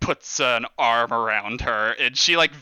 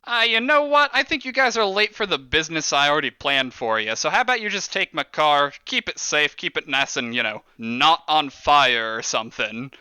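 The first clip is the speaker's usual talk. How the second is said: boss brushing off goons. Acted. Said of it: "He's like".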